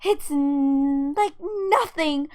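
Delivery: loud, heated accusation. Acted. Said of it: "Do not raise your voice".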